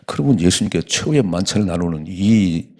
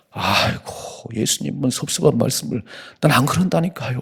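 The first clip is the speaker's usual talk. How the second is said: whiny protesting Peter; 5 semitones higher than usual. Retold or imitated.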